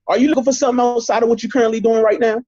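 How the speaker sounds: quick, bright model question; demo question. Shown as a demonstration. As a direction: rattle it off brightly. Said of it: "That's how you ask them the question".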